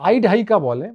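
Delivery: Bengali said with an American-style accent. Shown as a demonstration. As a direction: lightly imitate American pronunciation in Bengali. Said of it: "বাঙালি উচ্চারণে খানিকটা American বললাম".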